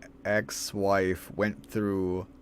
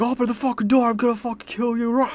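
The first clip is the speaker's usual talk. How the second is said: high, loud, hammed-up raging maniac; mock psychotic yelling; 14 semitones higher, 5 dB louder, faster than usual. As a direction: scream threats like a cartoon psycho, ending in a roar. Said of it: "psychotic fucking yelling and screaming".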